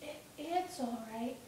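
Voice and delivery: soft, slow, stammered reply; subdued boy. Acted. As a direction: forgive him quietly and haltingly. Shmuel reassures him, frightened.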